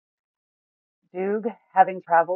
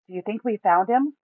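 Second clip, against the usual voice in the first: excited; 6 semitones higher than usual. A narrator's reading. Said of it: "Buma asks excitedly".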